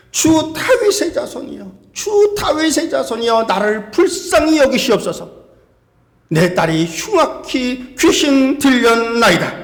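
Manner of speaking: mock crying out. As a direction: imitate a woman calling out to Jesus, understated. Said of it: "예수님을 향해서 크게 소리를 지릅니다". (크게 부르짖는 흉내, 길게 끌며 간청)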